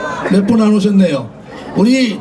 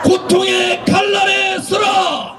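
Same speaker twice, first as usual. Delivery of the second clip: roaring rallying speech; 4 semitones higher, slower than usual. Real, not acted. Closing rally call and response.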